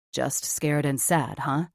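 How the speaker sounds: low, slow doubting echo; skeptical. Acted. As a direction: throw her words back, unconvinced. He echoes her skeptically.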